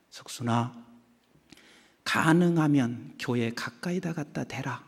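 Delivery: soft, low private nudge to oneself; inner voice urging. Retold or imitated. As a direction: whisper your own selfish idea. Own selfish thought voiced.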